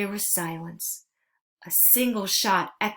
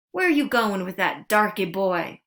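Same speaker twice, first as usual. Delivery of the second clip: yelling; 5 dB louder than usual. Acted. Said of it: "one yelled at me".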